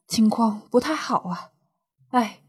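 acted whisper of bad news; worried whisper. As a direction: breathe it out as if afraid to say it. Husband hospitalized, worried auntie.

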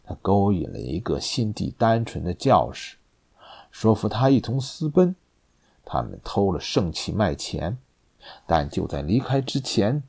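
low, quiet and grim; a somber executioner. Acted. Masked executioner speaking grimly.

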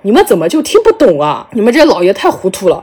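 lightly put-on Shanghai accent; Guo Da. Exasperated defendant scolding judges, light Shanghai accent. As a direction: complain with a touch of Shanghai accent. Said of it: "这句很有上海话的感觉".

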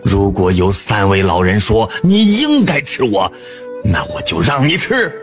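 a touch of fear in the scholar; frightened scholar. Acted. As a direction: bargain nervously for his life. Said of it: "吓得直哆嗦". (东郭先生害怕地跟狼商量)

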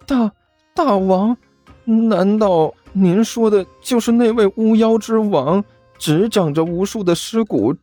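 high, rapt rising gush; awed gushing. Acted. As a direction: gush in breathless awe. Awed minion rhapsodizes.

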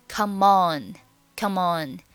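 "come on" run together as "kuh-mon"; "Come on" as one word, kuh-MON; linked pronunciation. Shown as a demonstration. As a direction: link the m of "Come" onto "on". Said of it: "Come on连读".

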